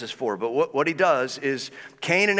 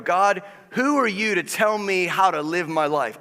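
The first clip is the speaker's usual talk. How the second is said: angry at God; 3 semitones higher than usual. Retold or imitated. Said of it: "you get angry with God and go".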